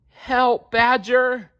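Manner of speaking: high, pleading little mole cry; high, loud feeble call to Badger; feeble bleat. A narrator's reading. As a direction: bleat for help like a small scared mole. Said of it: "he bleated feebly".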